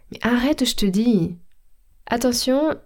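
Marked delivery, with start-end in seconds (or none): 0.1-1.4 mildly annoyed insistence; insist, a touch cross, with „je te” as „shte”; lekka irytacja. Acted. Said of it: "quite upset".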